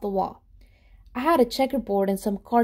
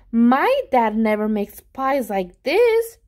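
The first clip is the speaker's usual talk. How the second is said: slow, louder, delighted; impressed; 5 dB louder, slower than usual. Acted. Friend Jeremy admiring the pie, slow and delighted. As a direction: savour each word in wonder. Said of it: "Jeremy said".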